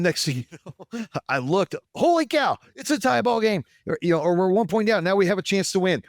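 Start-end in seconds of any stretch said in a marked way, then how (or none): 2.0-6.0 much higher and louder, thrilled shout; excited disbelief. Retold or imitated. Fan seeing his team tie the game, thrilled shout. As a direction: shout like the comeback is real.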